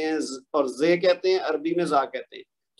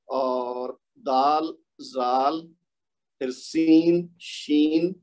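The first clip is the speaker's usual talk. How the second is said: reciting letter names; 4 semitones lower, much slower than usual. Shown as a demonstration. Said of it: "as it is accept کر لینا ہے".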